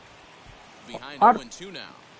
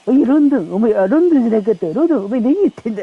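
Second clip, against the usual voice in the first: angry manager; 3 semitones higher, faster than usual. Acted. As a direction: chew out the player like a furious manager. Manager yells at player London.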